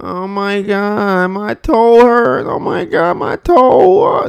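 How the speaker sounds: very high, very slow, drawn-out whine. Demonstrating two ways to react to a stubbed toe, the whiny complaining one. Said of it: "complaining and whining".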